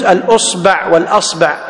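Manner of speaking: الأصبع said al-usba', then al-asba'; permitted variant vowellings. Shown as a demonstration. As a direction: contrast u and a openings in الأصبع والأصبع. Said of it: "ويجوز".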